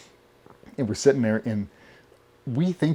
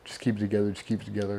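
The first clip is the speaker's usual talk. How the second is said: tag; 6 dB quieter, faster than usual. Retold or imitated. Talking himself down, retold.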